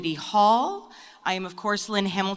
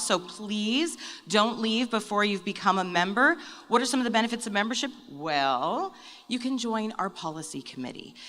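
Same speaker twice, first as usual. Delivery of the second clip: pitchman voice; 2 semitones higher than usual. Pretend. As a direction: sell it like a trade show booth. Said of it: "I got my little Pitchman voice on".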